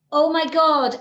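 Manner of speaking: loud, high gasp of Oh my God; overwhelmed thought. Retold or imitated. Remembering walking into her PhD exam, a loud startled Oh my God. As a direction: blurt out Oh my God as your mind goes blank. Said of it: "And I thought".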